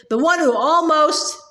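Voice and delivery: "almost" leaned on with emphasis; stress on almost. A narrator's reading. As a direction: put clear weight on the word "almost". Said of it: "put a great deal of emphasis".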